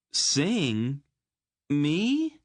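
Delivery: a high, loud yelp of disbelief; incredulous. Acted. Geryon hears he must sing to Aunt Paul, incredulous yelp. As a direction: pitch up sharply, as if he can't believe it. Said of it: "he said incredulously".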